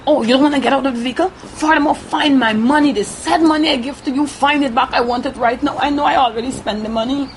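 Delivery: retold angry demand. Retold attacker demanding the money back, fast and heated. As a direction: rattle off his demands in a hurry.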